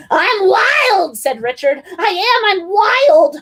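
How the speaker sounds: high, loud boast; high shouted I'm wild; wild child shout. A narrator's reading. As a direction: yell like a wild kid.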